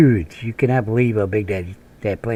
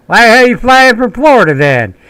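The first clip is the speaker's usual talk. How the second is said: baffled sergeant; 11 semitones higher, 7 dB louder than usual. Retold or imitated.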